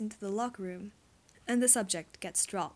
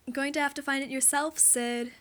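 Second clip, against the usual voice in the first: sing-song; 4 semitones higher, 4 dB louder than usual. Acted. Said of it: "voice sing-song".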